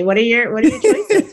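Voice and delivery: high, laughing mock disbelief; mock incredulous. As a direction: ask the choices as if it's absurd, voice up high. Mocking her own absurd choice.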